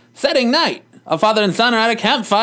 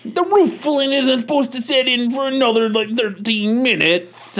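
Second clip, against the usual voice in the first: Cosby voice; 4 semitones higher, slower than usual. Acted. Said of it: "talking like Cosby still".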